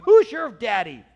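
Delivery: mock-confrontational call; taunting challenge. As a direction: throw it out as a loud challenge. Acted taunt, then corrected wording.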